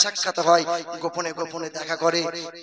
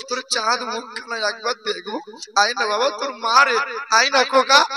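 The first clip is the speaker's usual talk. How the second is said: pleading call that climbs higher and louder toward the end; a mother's tearful pleading, mostly sung out rather than sobbed; 5 semitones higher, 4 dB louder than usual. Acted. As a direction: beg him to open the door, building to a high loud plea. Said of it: "কাতর কণ্ঠে কেঁদে কেঁদে বলছে".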